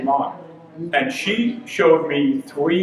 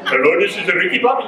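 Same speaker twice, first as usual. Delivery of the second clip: mock American call center greeting. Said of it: "pretending like they're, you know, American".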